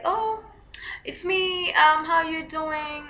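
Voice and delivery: overly chummy caller; mock familiar driver. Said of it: "So he's like".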